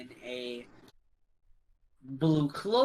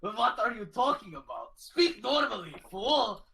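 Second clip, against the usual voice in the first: a hint of a scornful giant, higher; mock giant; 5 semitones higher than usual. GM voicing the giants, mildly scornful. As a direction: giant scoffs at them. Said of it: "the giants are like".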